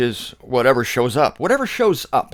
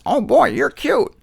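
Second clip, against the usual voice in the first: squawky parrot, pitched way up; high parrot mimicry; 10 semitones higher, 3 dB louder than usual. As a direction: mimic the bird repeating its line. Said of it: "the parrot says".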